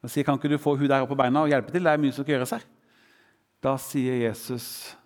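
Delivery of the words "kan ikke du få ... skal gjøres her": a touch of fast, mild irritation; irritated. Acted. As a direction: rattle it off like a mildly annoyed sister.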